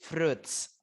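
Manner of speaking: "Fruits" as one syllable, froots; one clean syllable, "Fruits" as froots; correct pronunciation. Shown as a demonstration. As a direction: model "Fruits" with a silent i. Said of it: "tapi fruits".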